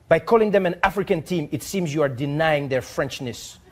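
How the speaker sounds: put-on lightly French-accented formal letter read; a hint of a French diplomat reading aloud; mild French accent, earnest and formal. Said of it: "he says".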